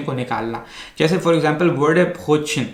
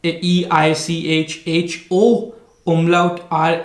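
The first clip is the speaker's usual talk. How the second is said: slow spelling out; much slower than usual. Shown as a demonstration. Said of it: "अगर आप इसकी आप spelling देखें".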